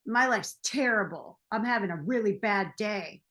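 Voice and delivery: mildly acted angry complaint; mock grumpy. Harry complaining to an old friend in the park, mock grumpy. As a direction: play a touch of grumbling self-pity. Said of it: "he's all mad".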